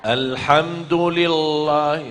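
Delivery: Alhamdulillah chanted slowly with a faulty lam; wrong recitation. Shown as a demonstration. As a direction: show the mistaken Alhamdulillah.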